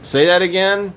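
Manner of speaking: high, loud, amused demand; laughing challenge to say it fast; excited. Real, not acted. Excited reaction to partner's joke.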